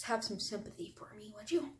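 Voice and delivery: quiet pleading voice; soft plea. Shown as a demonstration. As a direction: ask softly for sympathy. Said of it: "I want you to do that".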